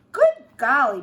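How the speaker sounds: exclaiming. A narrator's reading. Mama's exclamation.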